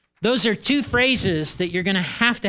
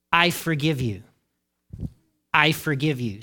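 sincere forgiving; 4 semitones lower than usual. Shown as a demonstration. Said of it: "let the words lead your heart".

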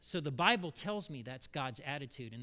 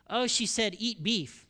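daughter explaining casually; 5 semitones higher, 7 dB louder than usual. Retold or imitated. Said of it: "Jill explains".

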